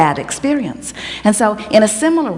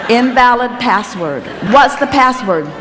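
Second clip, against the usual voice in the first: talking calculator voice; 2 semitones higher than usual. Pretend. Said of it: "it says".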